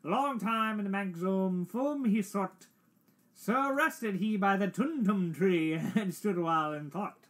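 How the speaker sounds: measured theatrical verse reading; poem recitation. Acted. Player continues the Jabberwocky, poem recitation. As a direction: recite the nonsense verse with relish.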